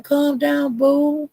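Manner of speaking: high-voiced calming appeal; retold soothing plea. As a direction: imitate yourself gently talking someone down, pitched high. Retelling her soothing of Duck.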